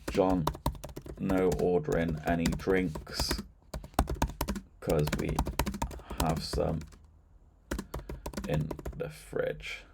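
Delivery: slow, halting word groups with long gaps; typing aloud. Shown as a demonstration. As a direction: say it piece by piece as you type. Typing a chat message aloud.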